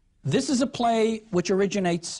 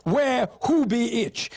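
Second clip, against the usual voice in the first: very slow, lofty French-tinged southern courtier; royal Southern accent; 4 semitones higher, slower than usual. Acted. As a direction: pronounce it like an uppity southern aristocrat. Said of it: "a Southern uppity aristocrat".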